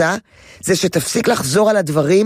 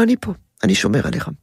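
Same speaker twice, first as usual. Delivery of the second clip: reassuring father; faster than usual. Shown as a demonstration. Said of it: "אז אתה אומר לו".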